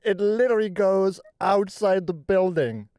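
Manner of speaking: loud, slow and laughing; excited. Real, not acted. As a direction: stretch it out in amazement. Marvelling at huge slide.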